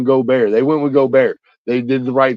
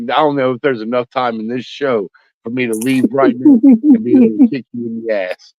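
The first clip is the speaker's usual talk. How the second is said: mock threat. Real, not acted. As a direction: build up to a playful yell. Mock threat to kick him.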